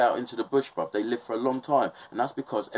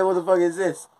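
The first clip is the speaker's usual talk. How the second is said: louder, high, incredulous demand; retold shock; 9 semitones higher, 6 dB louder than usual. Repeating it to his girlfriend, louder incredulous demand. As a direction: really press her for an answer this time.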